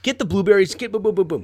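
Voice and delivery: acted-out aggressive parenting. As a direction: bark rapid-fire orders at the kid. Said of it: "I come across more aggressive".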